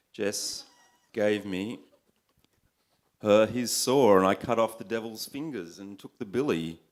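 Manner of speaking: measured, performed poetry recital; poem reading. A narrator's reading. Poet reads a bush tale to an audience, recited. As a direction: read it out as a wry narrative poem.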